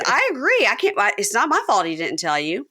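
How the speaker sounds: quick agreeable defense; high mock Tanya. Tanya to Taylor, high defensive agreement. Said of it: "And Tanya goes".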